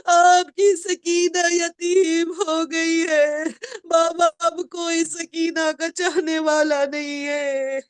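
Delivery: slow drawn-out sobbing plea; writhing call to her dead father; orphaned girl crying out to Baba; anguished child's cry. Acted. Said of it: "بچی تڑپ کے کہتی ہے".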